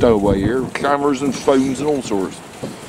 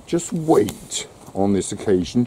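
low slow dog command; 5 semitones lower, 4 dB quieter, slower than usual. Real, not acted.

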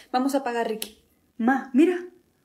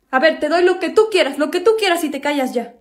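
loud bargaining; 6 dB louder than usual. Acted.

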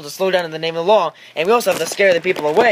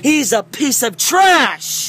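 mock insult; 4 semitones higher, slower than usual. Mocking a slow driver.

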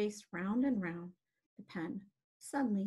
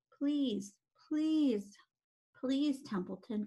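higher-pitched, insistent begging; beg, each please on its own; pleading; 4 semitones higher, slower than usual. Acted. Wilbur begging Templeton to save the egg sac, pleading. Pig begs rat for help.

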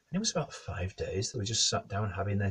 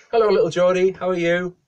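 loud, high sing-out hello; cheery greeting; 11 semitones higher, 13 dB louder than usual. Acted. Neighbours greet the wooden toy, cheery. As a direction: greet it as you would a toddler.

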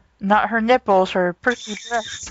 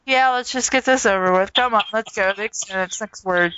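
flat business tone; 3 semitones lower, faster than usual. Retold or imitated. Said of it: "you're very flat, very business".

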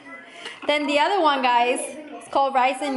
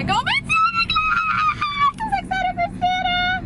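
excited squeal. Pretend. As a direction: squeal it like an overexcited kid. Mock child squeal about Santa.

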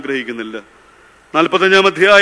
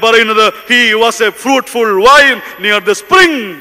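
fervent preaching; 2 semitones higher, 3 dB louder than usual. Real, not acted. Preacher holding up forgiving Joseph as a model, fervent preaching. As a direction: preach in driving, chant-like phrases.

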